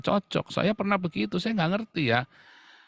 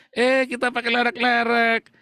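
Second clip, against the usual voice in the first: giddy couple; 8 semitones higher, 5 dB louder than usual. Retold or imitated. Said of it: "ketemu lagi".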